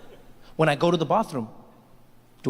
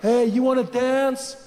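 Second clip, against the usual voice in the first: slow, leering creep's come-on; creepy guy; slower than usual. Acted. Creep hitting on a woman at a bar, sleazy drawl. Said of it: "That creepy guy comes up".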